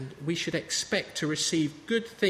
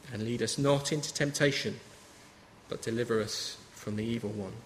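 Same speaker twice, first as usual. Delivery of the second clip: prayer recitation. Acted. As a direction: recite it to the congregation with weight.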